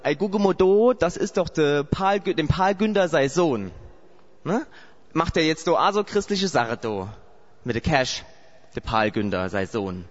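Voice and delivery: imitating the Saarland dialect of home. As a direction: gossip like a neighbour back home in the Saarland. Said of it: "ich versuche das jetzt mal nachzumachen".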